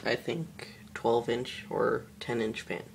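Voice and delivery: talking while chewing candy; words around a piece of candy; mouth full. Real, not acted. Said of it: "I'm chewing on a candy right now".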